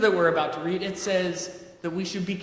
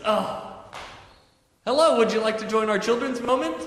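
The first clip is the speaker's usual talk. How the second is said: higher and louder, a chirpy cheerful greeting; playful Buddy voice; 5 semitones higher, 3 dB louder than usual. Pretend. Pastor greeting a latecomer as Buddy, chirpy and beaming. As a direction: greet the late child like a beaming elf. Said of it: "He says".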